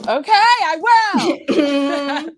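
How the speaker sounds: apologizing while laughing to tears; high, breaking with laughter, can't hold it in; real helpless laughter. Real, not acted. Cohost cracking up mid-apology, real tearful laughter. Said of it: "I'm crying".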